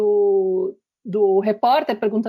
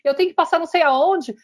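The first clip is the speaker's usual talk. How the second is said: put-on boy faking it; 7 semitones higher than usual. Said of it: "aí ele finge".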